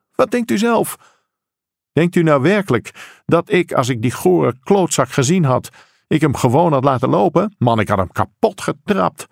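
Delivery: acted angry father, scornful; indignant retort. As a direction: throw the question back, outraged.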